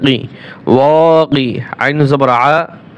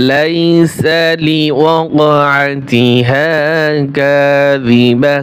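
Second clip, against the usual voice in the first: very slow intoned Quran reading; slow recitation; much slower than usual. Shown as a demonstration. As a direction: chant each syllable slowly like tilawat. Repeats the verse recited.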